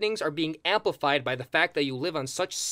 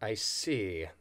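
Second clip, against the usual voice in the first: whisper; 9 semitones lower, 8 dB quieter than usual. Acted. Consultant reacts to moving door.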